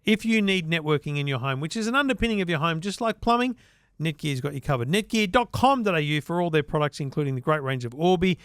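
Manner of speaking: upbeat podcast ad read for the sponsor; host-read advert. Acted.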